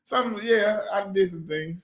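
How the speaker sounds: coy, evasive half-confession; cagey admission. Real, not acted. Man dodging a question about his past, cagey. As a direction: admit it vaguely, dropping off at the end. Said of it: "Why you saying it like that?".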